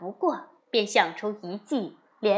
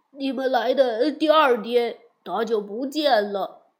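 lama voice; 5 dB louder than usual. Acted. 喇嘛们答话.

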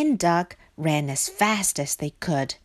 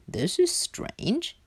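high, slow wondering; puzzled Hare; 8 semitones higher, 4 dB quieter, slower than usual. Acted. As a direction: muse high and slowly. Hare puzzled by empty house.

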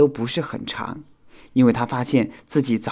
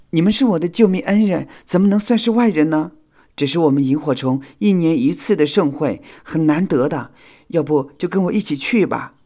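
high, loud heartfelt persuasion; earnest invitation; 8 semitones higher, 7 dB louder than usual. A narrator's reading. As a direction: urge your rescuers to come along. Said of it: "火影再次诚恳地邀请道". (诚恳地邀请)

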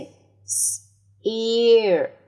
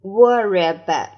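louder, fast Worry about; loud quick model; 6 dB louder, faster than usual. Shown as a demonstration. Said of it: "teacher models loudly, quick". (大声快读 Worry about)

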